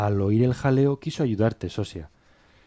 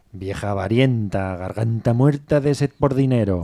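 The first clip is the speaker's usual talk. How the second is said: mildly acted outburst, getting louder toward the end; retold insult; 5 dB louder than usual. Servant retelling Pármeno's abuse of the old woman, insulting. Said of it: "Pármeno la insultó".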